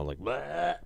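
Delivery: gagging as he talks; retching between words; dry heaving. Real, not acted. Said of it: "I'm dry heaving right now".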